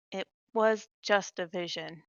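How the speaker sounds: soft, slow, steadying words; calm a shaken friend, softly; gentle reassurance. Acted. Hand on a shaken companion's arm, gently reassuring.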